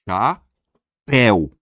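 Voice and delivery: "Chapéu" very slow, with PÉU loud; stress on last syllable. Shown as a demonstration. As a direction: pause after CHA, then punch PÉU in "Chapéu". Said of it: "A sílaba mais forte é a última".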